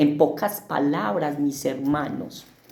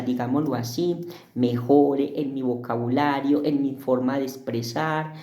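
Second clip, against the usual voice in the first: prayer. Acted. Pastor praying before the Bible lesson, earnest prayer voice. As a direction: pray humbly, trailing off on Señor.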